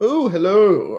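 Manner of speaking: put-on overly polite voice. Mocking how Draxus would ask nicely for money: mock-polite Draxus impression. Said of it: "you're gonna ask nicely, Draxus? You're gonna walk be like".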